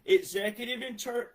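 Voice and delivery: usual speaking voice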